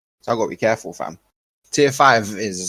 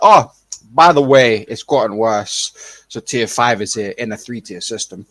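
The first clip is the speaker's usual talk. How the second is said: slow, louder offhand mock news; mock casual announcement; 5 dB louder than usual. Government springing tier five, in a slow mocking tone. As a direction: drawl it like it's no big deal. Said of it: "they're like".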